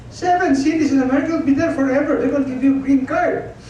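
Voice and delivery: animated, high-pitched retort; retold exclamation. Retells own exclaimed reply.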